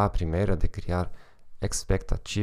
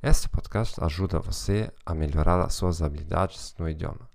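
German accent Portuguese. Real, not acted. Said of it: "com sotaque alemão".

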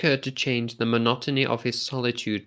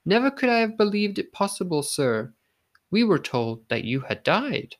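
amazed; 6 semitones higher than usual. A narrator's reading. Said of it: "in a tone of supreme amazement".

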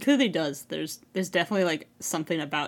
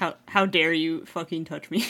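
loud, pouting mock outrage; pouty indignation; 5 dB louder than usual. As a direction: act offended with a pout, half-joking. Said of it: "like, pouty and stuff".

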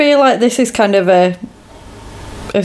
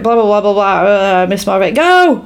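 retold frantic outburst. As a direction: babble through it, then pitch the last word up. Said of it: "like, frantic".

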